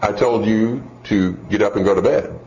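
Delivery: unruffled parent; calm mother. Acted. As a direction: state the reason evenly, with pauses. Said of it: "calm voice".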